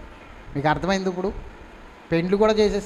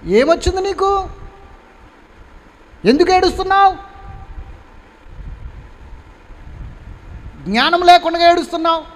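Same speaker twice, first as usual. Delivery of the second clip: scolding angel; 8 semitones higher than usual. Acted. Angel scolding the weeping Hagar in the wilderness, higher rebuking voice. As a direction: chide her like a heavenly messenger. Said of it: "అన్న మాటకు అర్థం అది".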